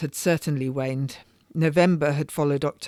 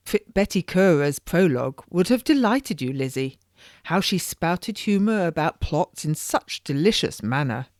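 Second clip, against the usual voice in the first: lightly voiced society lady, chattering on; a hint of a prattling noblewoman; genteel lady gossiping; 2 semitones higher than usual. Lady chatting to her friend in prison, lightly voiced society gossip.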